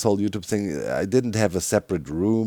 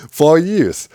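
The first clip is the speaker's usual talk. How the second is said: mock menacing shout; 8 semitones higher, 9 dB louder than usual. Repeats the threat louder.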